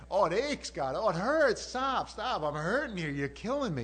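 hammed-up cries of pain, high and loud; mock-agonized protest; kid getting punished. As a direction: wail like a child being spanked. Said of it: "he sounds like a kid getting punished".

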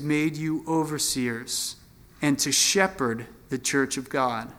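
slow, weighty reading of the verse; scripture reading. Acted. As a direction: read it out like holy scripture. Preacher reads scripture aloud.

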